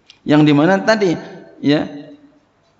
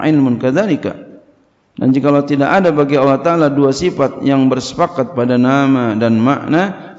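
louder, measured recitation of the Arabic text; kitab reading; 4 dB louder than usual. Acted. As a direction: read the kitab aloud like a pesantren teacher. Reads kitab Arabic then translates. (membaca kitab dengan lantang)

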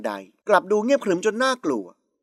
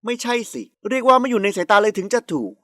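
ordinary delivery

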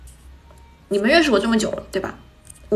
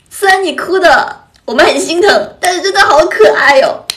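gushing fan sympathy; 7 semitones higher, 9 dB louder than usual. Retold or imitated. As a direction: mimic fans gushing over a cute crier. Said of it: "好几个人给我发". (夸张模仿粉丝心疼又觉得可爱的语气)

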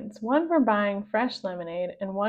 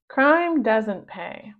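slow moral; much slower than usual. Acted. Moral delivered slowly.

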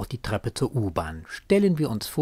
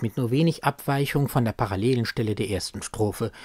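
ordinary talk, nothing marked

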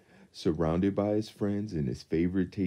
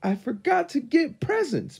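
Pooh voice; 6 dB louder than usual. A narrator's reading. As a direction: voice Pooh high and gentle. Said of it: "Pooh exclaimed".

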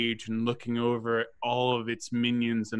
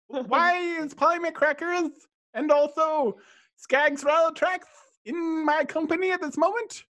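beholder voice; 3 dB louder than usual. Acted.

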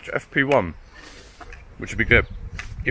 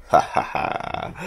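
breathy laugh; 7 semitones higher, much slower than usual. Real, not acted. Laughing at the blow-up beds.

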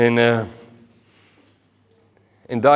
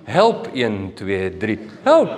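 counted-out call, no real panic; mock orderly cry for help; measured, rehearsed help; 5 semitones lower, much slower than usual. Shown as a demonstration. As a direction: count slowly, then a tame call. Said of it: "Dis nie van help".

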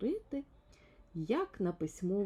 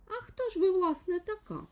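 much higher, loud demanding question; full voice; 12 semitones higher, 6 dB louder than usual. A narrator's reading. Little man demands who the caller is, loud and high. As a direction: ask it out loud, no more whispering. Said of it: "а на повен голос запитав".

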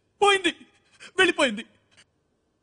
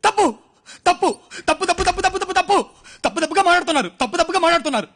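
higher and louder, insisting over and over; heated protest; 3 semitones higher, 4 dB louder than usual. Acted. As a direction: hammer the word తప్పు in rising protest. Protesting the advice to move on.

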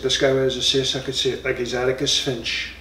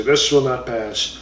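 slow, grave title read; said seriously; slower than usual. Shown as a demonstration. Correcting himself, reads the book title with mock seriousness. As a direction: announce the title with mock gravity. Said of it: "you have to say it seriously".

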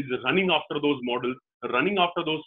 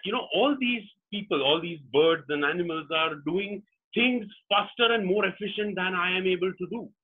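higher-pitched, exasperated storybook fox; mildly frustrated plea; 5 semitones higher than usual. Acted. Fox complains to the owl about failing to cross, mildly frustrated. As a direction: plead your case with mock frustration.

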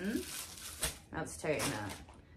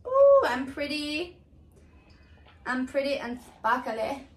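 mock vain; 4 semitones higher, 4 dB louder than usual. Admiring herself in glitter.

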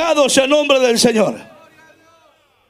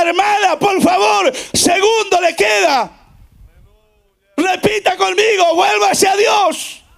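imitating a pleading pastor, stretched final words; urgent tearful plea; 5 semitones higher, slower than usual. Pastor begging a dying sister to repent, retold tearful plea. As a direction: plead with raised intensity, retold. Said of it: "el pastor con lágrimas decía".

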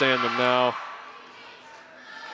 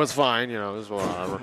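deadpan resignation; 4 semitones lower, 5 dB quieter than usual. Real, not acted. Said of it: "The way you said that just scared me".

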